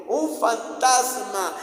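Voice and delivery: loud, drawn-out cry of alarm; frightened shout. Retold or imitated. Disciples spot a figure on the sea, frightened shout. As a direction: shout it high and stretched out. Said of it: "Y todos gritaron".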